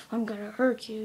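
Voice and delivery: mock threat. Brother pressing his sister to talk, mock threatening. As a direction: play at threatening, with a sudden push. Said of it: "gets up in my face".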